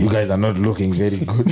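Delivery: chuckling through the words; laughing. Real, not acted. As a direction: laugh while you say it. Laughing as he tells it.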